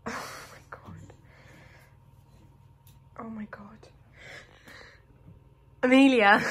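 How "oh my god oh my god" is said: whispering. Real, not acted. Sees baby in fireplace.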